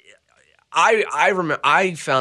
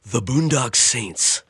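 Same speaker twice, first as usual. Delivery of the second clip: movie trailer voice; slower than usual. Pretend. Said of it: "do it in, like, your movie trailer voice".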